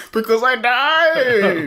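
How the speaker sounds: slow, high spooky Santa; Dead Santa voice. Acted. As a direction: drag it out like a ghost. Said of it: "why are you so spooky this year".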